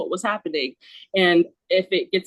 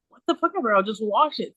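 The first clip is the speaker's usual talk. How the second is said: exasperated retort; 2 semitones higher than usual. Retold or imitated. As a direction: toss it off as an exasperated daughter. Exasperated retort in fight with mom.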